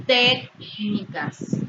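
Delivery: "técnicas" with TÉC held long and strong; stress on antepenultimate syllable. Shown as a demonstration. Teacher giving an esdrújula example, stressed TÉC in "técnicas". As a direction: punch the first syllable of "técnicas", let the rest fall. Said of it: "Tienen su sílaba tónica".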